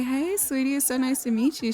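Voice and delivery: friendly introduction. Acted. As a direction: greet a sweetie in a lifted voice. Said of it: "Let's have a friendly introduction".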